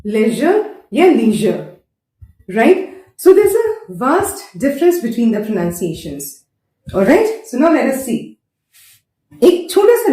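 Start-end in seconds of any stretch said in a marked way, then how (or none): 0.1-1.7 लेजर या लीजर very slowly; both said slowly with zh; slow contrast. Shown as a demonstration. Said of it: "इसमें ज आया". 3.2-6.2 stretched slowly for emphasis. Shown as a demonstration.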